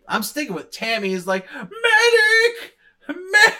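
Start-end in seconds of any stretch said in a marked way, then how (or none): 1.5-3.5 overacted high yell for a medic; man down shout. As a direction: scream for a medic, hammed up. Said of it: "worst way overacting I've ever seen".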